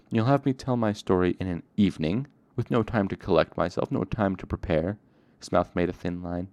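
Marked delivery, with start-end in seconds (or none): 0.1-5.0 loud, indignant complaint. Acted. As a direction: push back hard against being rushed. Coate snaps, refusing the rushed telling.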